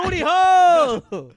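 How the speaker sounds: loud, slow booming shout; yelled punchline. Acted. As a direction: bellow it slowly.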